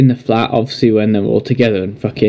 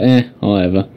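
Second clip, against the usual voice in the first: offhand, slightly lower shrug; laid back; 3 semitones lower than usual. Retold or imitated. Friend imitating laid-back Doctor Strange, nonchalant. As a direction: toss it off, unbothered. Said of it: "a really laid back character".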